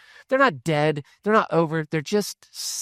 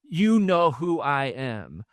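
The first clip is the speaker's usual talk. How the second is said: each word slowed and weighed out; slow emphatic repeat; 2 semitones lower, much slower than usual. Shown as a demonstration. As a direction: lean on "You know who I am" slowly.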